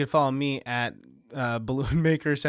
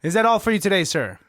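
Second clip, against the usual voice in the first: lilting and a bit louder; sing-songy; 3 semitones higher, 4 dB louder, faster than usual. Acted. Cashier actor obeying the director, sing-songy. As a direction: bounce the line up and down. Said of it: "Sing-songy".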